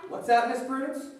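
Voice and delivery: high loud mock surprise. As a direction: feign amazement at her. Host plays along.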